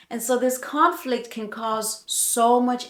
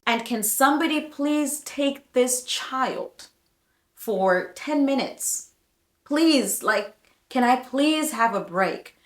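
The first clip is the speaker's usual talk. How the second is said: weary plea with stretched, raised "please"; acted pleading; 3 semitones higher than usual. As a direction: beg for relief, pausing between phrases. Voices overwhelmed mother pleading.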